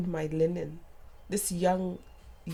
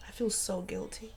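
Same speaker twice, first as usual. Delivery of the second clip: whispered guilt; 9 dB quieter than usual. Retold or imitated. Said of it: "She goes".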